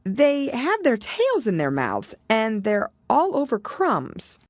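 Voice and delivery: put-on high girlish voice, slow and earnest; a young girl explaining carefully; Alice. A narrator's reading.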